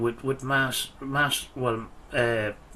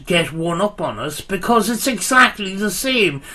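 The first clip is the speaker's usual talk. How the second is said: loud heated rant, getting louder; tearing into him, voice raised; wild unhinged ranting; 3 semitones higher, 4 dB louder than usual. Real, not acted. Heated argument with rival youtuber.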